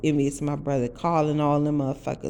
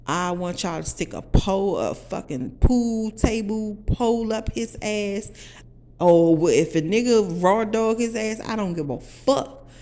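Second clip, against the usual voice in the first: louder, heated demand; worked-up, forceful venting; vengeful rant; 3 semitones higher, 5 dB louder than usual. Retold or imitated. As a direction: retell a furious order for revenge. Retold demand for revenge to brother.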